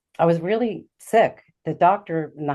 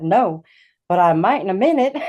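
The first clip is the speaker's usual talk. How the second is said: louder mock reply breaking into a laugh; joking reply, imitated; 4 semitones higher, 6 dB louder than usual. Nurse answering her colleague, joking imitation with a laugh. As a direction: let the quoted quip tip into laughter.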